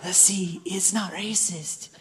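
put-on soft, drawn-out accented puppet voice. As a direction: softly reassure as an accented puppet. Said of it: "we should do that accent".

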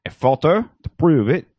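lightly put-on Swedish accent; a hint of the Swedish chef. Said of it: "What accent was that".

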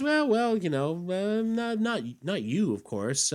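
a toady backpedals fast before his emperor; high flustered toady. Retold or imitated. Flustered underling fawning over Mordru.

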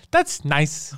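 lightly mimicked creepy nice guy; a low, awkward mock compliment; Pee Wee Herman. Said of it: "What are you, Pee Wee Herman?".

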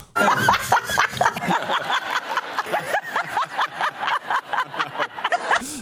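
silent high wheeze of laughter; real wheezing laugh. Real, not acted. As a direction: break up laughing. Cracks up at his own joke.

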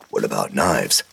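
low, blunt growl of a question; a grizzled vet cutting to the point; gruff old Hogan. A narrator's reading. Hogan questioning the boy, low and blunt.

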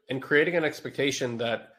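blocked-nose nasal voice. Real, not acted. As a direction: speak through a stuffy nose. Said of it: "excuse me for my nasally voice".

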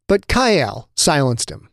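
ordinary delivery

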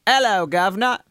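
London accent greeting, rising at the end. Shown as a demonstration. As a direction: demonstrate a London "'Ello, guv'nor". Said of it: "into my London accent".

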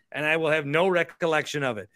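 a little tipsy; tipsy, slightly loose speech; buzzed. Real, not acted. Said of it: "like, a little buzzed, maybe more".

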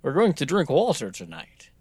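Russian accent from the back of the tongue; mumbled Russian accent. Shown as a demonstration. Showing how drunks sound Russian, mumbled Russian accent. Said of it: "talking with the back of your tongue".

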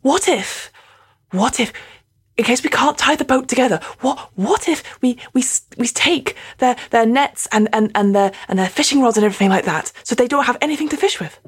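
fast, eager scheming, words tumbling out; excited planning. Real, not acted. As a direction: rush the idea out in excitement. Pitching sabotage plan to captain.

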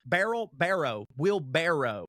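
wheelbarrow ending in an O, not an L; careful pronunciation. Shown as a demonstration. Correcting his own childhood word, careful pronunciation. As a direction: say "wheelbarrow" with a clear barrow ending. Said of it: "it was always wheelbarrow to me".

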